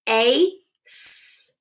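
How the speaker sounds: "A, s" sounded apart; tapped sounds. Shown as a demonstration. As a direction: tap out "A, s". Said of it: "Tap it".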